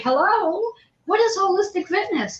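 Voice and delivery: high-pitched imitation of a stranger calling over; mock yell. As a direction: call out for attention, without real volume. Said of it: "I'm hearing someone yelling this".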